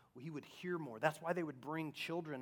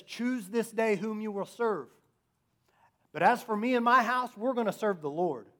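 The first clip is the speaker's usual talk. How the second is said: raised, loud proclamation of a resolve; bold declaration; 7 semitones higher, 10 dB louder than usual. Retold or imitated. Preacher voices Joshua challenging the people, bold and loud.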